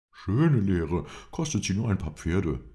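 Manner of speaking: high, loud scoff; scoffing Englishman. A narrator's reading. Englishman scoffs at his master's leniency, high and loud.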